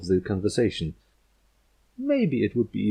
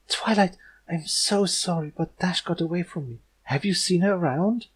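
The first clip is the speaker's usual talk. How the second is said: apologize, cringing; timid apology; 9 semitones higher than usual. Acted. Fluttershy apologizes to Twilight, timid.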